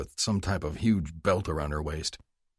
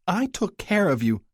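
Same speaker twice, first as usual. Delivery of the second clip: high, reproachful mother; guilt trip; 12 semitones higher, 3 dB louder than usual. Acted. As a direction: lay on the guilt. Mother guilt-trips son.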